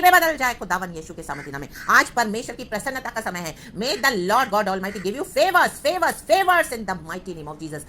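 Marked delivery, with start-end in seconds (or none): 1.9-7.8 loud, drawn-out preacher's blessing; proclaimed blessing. Real, not acted. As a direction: declare it forcefully over the congregation. Proclaims a blessing at full force. (ज़ोरदार आशीष की घोषणा)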